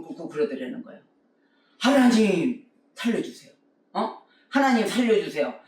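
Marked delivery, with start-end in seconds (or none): 1.8-5.5 desperate prayer. Retold or imitated. Drowning young man praying in the rapids, pleading. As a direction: beg God for your life. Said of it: "이러고 기도를 하더라는 거예요".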